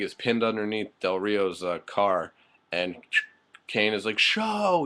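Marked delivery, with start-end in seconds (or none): 4.2-4.8 calling out. Retold or imitated. Kane calling out to Show.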